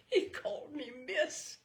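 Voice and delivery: high, laughing delight; amused woman. Acted. Fragrant woman delighted to the old boy, high and laughing. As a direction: chuckle at being called miss.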